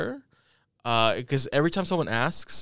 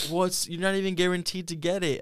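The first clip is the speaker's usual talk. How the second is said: mom voice; 7 semitones higher than usual. Retold or imitated. Mom's retort, far timbre.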